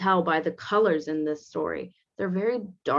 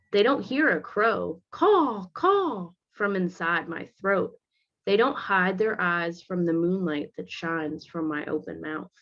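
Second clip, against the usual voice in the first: put-on reading to children. A narrator's reading. Teacher reading a picture book aloud to students. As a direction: read it gently to the class.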